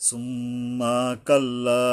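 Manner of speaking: slow chanted সুম্মা কাল্লা, final "laa" lengthened; one-alif stretch. Shown as a demonstration. Teacher models elongation, সুম্মা কাল্লা slowly chanted. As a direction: stretch the end of কাল্লা after a hummed সুম্মা. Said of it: "কাল্লার উপরে এক আলিফ টানতে হবে".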